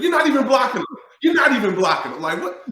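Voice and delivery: loud, high scolding outburst; exasperated shout. Real, not acted. Former player scolding linemen who make excuses, exasperated shout. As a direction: hammer it home in disbelief. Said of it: "exasperated at linemen".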